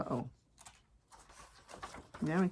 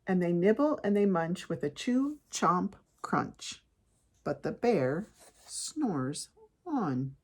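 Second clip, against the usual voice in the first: picture-book reading, stretched-out slow refrain; story narration. A narrator's reading. Parent tells kids of the sleeping bear, storytelling. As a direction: draw out the last line for the children.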